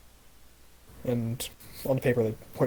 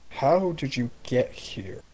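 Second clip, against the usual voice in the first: Itsonia's voice; much slower than usual. Acted. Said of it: "switches over to Itsonia's voice".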